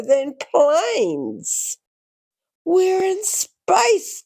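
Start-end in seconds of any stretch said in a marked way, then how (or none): 2.6-4.2 a drawn-out call, higher, slow; a touch of an excited shout; mild yell. A narrator's reading. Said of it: "Danny yelled".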